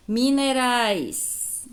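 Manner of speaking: slow syllable-by-syllable reading. Shown as a demonstration. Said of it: "teacher sounds out word".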